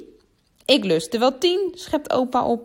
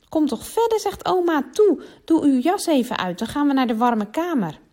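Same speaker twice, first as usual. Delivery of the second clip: grandma's voice; 6 semitones higher, 3 dB louder than usual. A narrator's reading. Voices grandma inviting guest.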